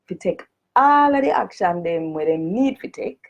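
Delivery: formal petition read in broad Jamaican patois. Shown as a demonstration. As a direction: read it out in full Jamaican Creole. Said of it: "I'm gonna read it first in a the Jamaican language".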